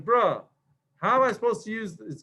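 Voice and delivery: fast, exasperated bro whine; grumpy compiler. Retold or imitated. Compiler fussing at the coder, mock exasperated. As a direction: complain like an annoyed buddy. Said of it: "get very grumpy at you 'cause it's like".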